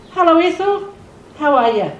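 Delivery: imitated hearty, voiced hello; imitating restored voice. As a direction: call it out like a man showing off his regained voice. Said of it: "he spoke like he normally spoke".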